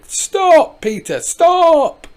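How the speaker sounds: high loud shout to stop him. Acted. Pat shouting at Peter over the tractor noise, loud. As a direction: yell stop over the engine. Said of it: "Pat shouted".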